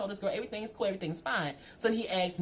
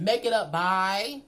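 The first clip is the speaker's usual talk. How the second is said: mock disbelief; 6 dB louder, much slower than usual. Mocking his demand.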